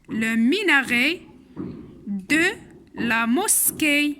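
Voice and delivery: slow "le minaret de la mosquée." with "minaret" ending in é; slow dictation. Shown as a demonstration. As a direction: read the phrase slowly, word by word. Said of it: "هاد كلمة تنتهي ب إي".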